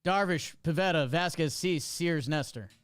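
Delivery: quick-fire list of names; fast rattle-off. Shown as a demonstration. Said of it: "Go quick, quick, quick".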